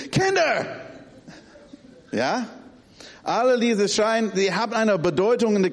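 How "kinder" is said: much higher, sharp yell of Kinder!; sharp alarm call. Retold or imitated. Dad calling kids urgently, high sharp call. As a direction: snap the name out as a warning. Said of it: "Und dann gibt's".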